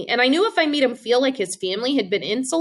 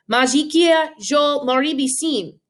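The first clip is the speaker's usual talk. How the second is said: bully in Afrikaans; 3 semitones higher, slower than usual. Retold or imitated.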